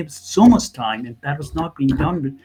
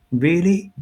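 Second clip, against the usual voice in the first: retold disbelief; 4 semitones higher than usual. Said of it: "I was like".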